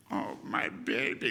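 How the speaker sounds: slow, airy mock weeping; imitated tearful mother. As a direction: choke up like a moved mother. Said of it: "And she started to cry".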